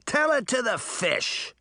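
high, slow taunting holler; theatrical boyish holler without full volume. A narrator's reading. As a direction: holler it high, drawing the words out. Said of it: "the boy hollered".

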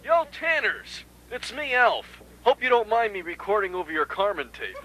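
soft voice on a tape recording; taped farewell message. Acted. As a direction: leave a subdued message on cassette.

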